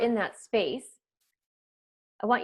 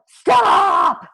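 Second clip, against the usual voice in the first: sudden loud shout, much higher; shouted stop; 11 semitones higher, 10 dB louder than usual. Retold or imitated. Parent coach acting out yelling at wild kids, full shout. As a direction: blast it out like a frazzled mom. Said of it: "you know".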